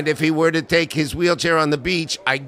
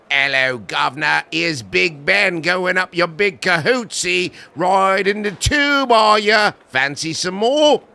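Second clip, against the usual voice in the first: mock British accent. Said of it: "he would have never done anything like said".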